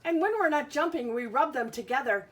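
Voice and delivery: lilting picture-book read-aloud; reading to children. Acted. Teacher reads a bug book to her class, sing-song. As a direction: read the rhyming book to the kids.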